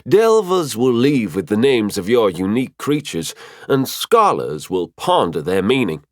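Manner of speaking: a hint of an instructing guide; mentor figure, explaining. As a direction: explain with gentle emphasis. Figure of Mafira explains to Valterra.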